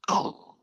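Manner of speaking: vocal crash sound; imitated crash. Hunter imitates the crash heard in the willows, imitated noise. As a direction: mimic a sudden crash with your voice. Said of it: "I hear this crash, just".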